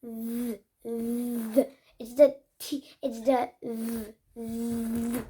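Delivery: quiet "the" with a voiced th; soft demo. Shown as a demonstration. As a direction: model "the" softly. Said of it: "So this diphthong is the".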